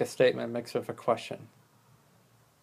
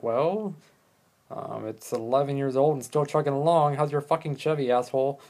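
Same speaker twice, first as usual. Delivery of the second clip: mildly raised, snippy comeback; mock defensive retort; 2 semitones higher than usual. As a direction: fire back a defensive jab. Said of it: "it's a defensive tone of voice".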